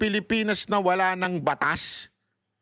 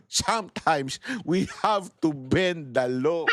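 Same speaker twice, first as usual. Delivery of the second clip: slow, low mock imitation of the senator; mocking quote; 5 semitones lower, slower than usual. Vlogger mocking the senator's quote, slow and low. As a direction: drag the words out lower, mocking him. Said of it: "sinabi nitong isa, ah, ang tao daw ay above the law".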